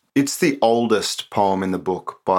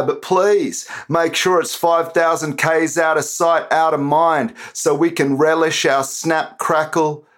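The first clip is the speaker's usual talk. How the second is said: spoken word performance; 3 semitones higher, slower than usual. Acted. Poet performing his political poem for the podcast, declamatory and sarcastic.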